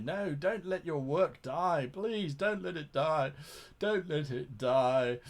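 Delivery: slow, pleading "don't let it die"; mock pleading. A host begging game masters to save their mystery, slow and pleading. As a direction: beg them not to let it die.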